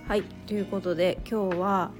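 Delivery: hoarse from a cold; raspy, worn-out cold voice. Real, not acted. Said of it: "ちょっと声がガラガラなんですけど".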